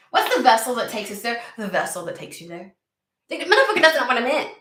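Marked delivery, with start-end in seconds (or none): 3.3-4.5 high, loud cursing outburst; loud exasperated swearing; frustrated swearing. Real, not acted. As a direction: curse at the cards in disbelief. Swearing at the cards.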